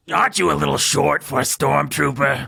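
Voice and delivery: lightly voiced princess; a touch of cartoon princess; Princess Leia voice. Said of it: "one thing that Princess Leia says".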